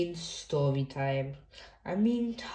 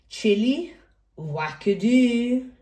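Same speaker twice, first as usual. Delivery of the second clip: higher, slow, drawn-out character call; mock character cheer; 4 semitones higher, 4 dB louder, slower than usual. Reader voicing Chili for the children, playful drawn-out cheer. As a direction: stretch out a playful wackadoo.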